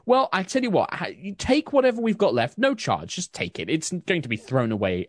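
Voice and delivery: chatty baker. Acted. Susan insists, no charge.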